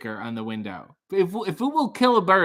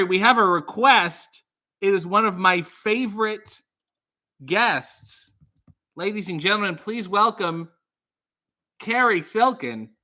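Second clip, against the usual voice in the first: talk show host; 3 semitones higher than usual. Acted. Host introducing a caller.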